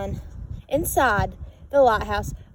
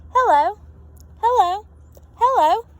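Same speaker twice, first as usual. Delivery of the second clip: calling out; 8 semitones higher, 6 dB louder than usual. A narrator's reading. Lighthouse calling in the storm.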